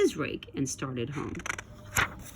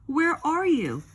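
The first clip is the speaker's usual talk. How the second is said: high, louder call of a name; 10 semitones higher, 3 dB louder than usual. A narrator's reading. Toad under the leaves calling for Frog, high call. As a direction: call into the woods for your friend. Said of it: "cried the thing".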